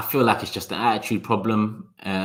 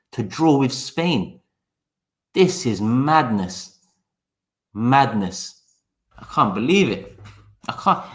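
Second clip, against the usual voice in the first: sarcastic disbelief; 3 semitones higher, slower than usual. Pretend. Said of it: "'cause he knows my sarcasm".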